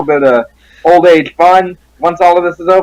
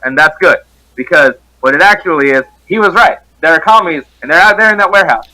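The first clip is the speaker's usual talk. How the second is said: soldier voice. Acted. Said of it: "in my best soldier voice".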